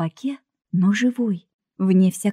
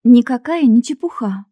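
loud, higher, forceful contradiction; barking retort; 4 semitones higher, 6 dB louder than usual. A narrator's reading. Girl contradicting the old woman, barked. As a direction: bark it back at her. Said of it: "рявкнула Женька".

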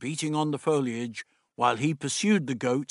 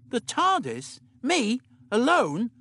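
put-on a touch of alarm, higher young voice; alarmed Dodo; 10 semitones higher, slower than usual. Dodo told to fetch things from the tardis, mildly alarmed. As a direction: squeak out her disbelief, lightly.

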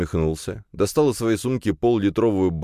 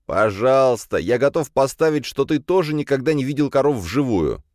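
lightly voiced eager younger brother, much higher; pleading with his brother to stop the car; eager young Kirill; 8 semitones higher, 3 dB louder than usual. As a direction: younger brother eager to see real cows.

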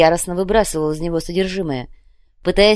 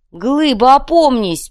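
very high, loud plea; alarmed scream; 8 semitones higher, 8 dB louder, slower than usual. Acted. Sakhar trying to stop Glyba, high alarmed scream.

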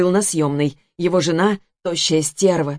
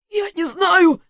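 panicked cry; 12 semitones higher, slower than usual. Acted. Panicked victim answering.

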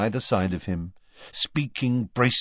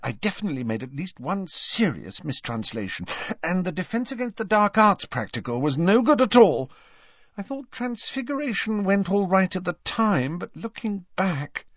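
anxious; 11 semitones higher than usual. Acted. Hermione voiced in audiobook.

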